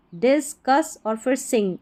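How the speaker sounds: "डिस्कस" then "सिंग" as separate chunks; syllable-by-syllable "डिस्कस", "सिंग"; split into parts. Shown as a demonstration. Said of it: "तीन parts में इसको divide".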